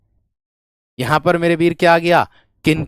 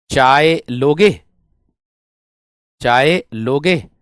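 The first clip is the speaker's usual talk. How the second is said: slow dictation; 3 semitones lower, much slower than usual. Shown as a demonstration. Teacher dictates the question slowly, stretching each word. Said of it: "या से जोड़ दिया".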